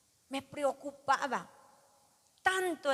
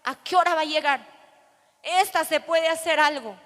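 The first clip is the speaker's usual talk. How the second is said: worried mother; 3 semitones higher, 6 dB louder than usual. Retold or imitated. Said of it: "El temor de mi mamá era".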